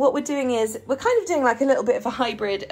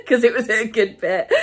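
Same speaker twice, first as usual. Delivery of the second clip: teary laughter; 3 semitones higher, 5 dB louder than usual. Real, not acted. Laughing through tears over book.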